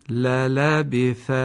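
slow, drawn-out word; slow model reading. Shown as a demonstration. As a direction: say it slowly for learners. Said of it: "کلمهٔ بعدی".

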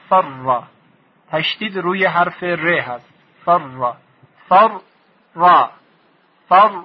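"فر" said whole, then broken at the doubled r; split into two parts. Shown as a demonstration. Teacher splitting the doubled r for students, syllable by syllable. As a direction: part "فر" at the doubled r.

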